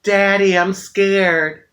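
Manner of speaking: a light hint of a scared little boy; small boy calling his dad, a mild imitation; little boy's voice. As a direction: lightly voice the frightened child. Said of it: "I hear this little boy's voice".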